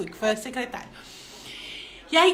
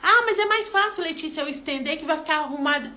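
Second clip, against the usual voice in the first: impatient objection; 2 semitones higher than usual. Retold or imitated. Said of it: "chama o menino de novo".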